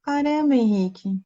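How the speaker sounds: high-pitched start falling to normal; exasperated. Real, not acted. Host to guest who keeps dropping, exasperated. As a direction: exclaim in real dismay, then sink back. Guest's connection drops once more.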